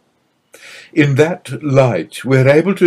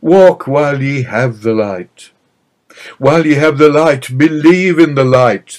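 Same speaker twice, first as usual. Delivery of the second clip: rising, louder plea to a crowd; higher and louder, insistent and pleading; fervent appeal; 4 semitones higher, 5 dB louder than usual. Acted. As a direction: build the urgency, calling the people to walk in the light. Jesus's last appeal to crowd.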